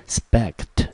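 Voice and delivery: slow, isolated "spect"; second syllable alone. Shown as a demonstration. Teacher breaking respect into syllables, isolated syllable. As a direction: sound out "spect" as one drawn-out syllable. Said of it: "一个音节".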